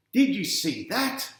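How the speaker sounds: dad calling out in delight; excited dad. A narrator's reading. Dad to his kids after a big mark, high and excited. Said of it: "says Dad".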